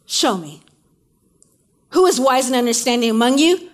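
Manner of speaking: a touch of a demanding James; preacher voicing James challenging the readers; imperative command. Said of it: "and it says this".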